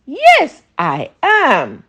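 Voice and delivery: eager, bright quick yes; excited. Acted. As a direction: jump at the chance, thrilled. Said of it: "Anansi replied in an excited tone".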